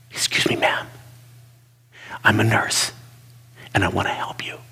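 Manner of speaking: a nurse whispering to a panicking patient; whispered. Retold or imitated. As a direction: whisper it close to the ear. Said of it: "right in her ears and said".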